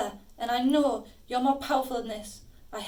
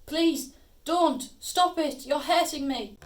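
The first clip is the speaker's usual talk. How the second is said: louder, higher pleas while held too tight; frightened pleading; 3 semitones higher, 4 dB louder, slower than usual. Acted. Sister begs possessed brother to stop hurting her, afraid. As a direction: beg him to let go. Being grabbed and hurt.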